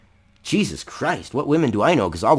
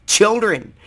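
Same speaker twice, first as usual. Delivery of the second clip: mock hysterical parent; 2 semitones higher than usual.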